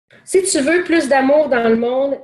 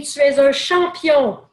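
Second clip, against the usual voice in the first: calling out; 3 semitones higher than usual. Retold or imitated. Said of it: "l'homme s'écrie".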